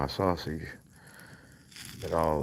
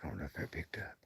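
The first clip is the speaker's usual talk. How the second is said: hushed whisper so the mic catches the howls; whisper, barely breathing; 10 dB quieter, faster than usual. Real, not acted. Listening quietly for coyotes at night.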